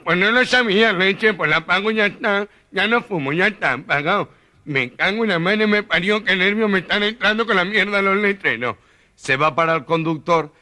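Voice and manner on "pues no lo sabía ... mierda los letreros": higher, exasperated mock grumble; 1 gangoso grumble. Gangoso fuming after being told off, higher pitched. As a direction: fume under the breath, fed up.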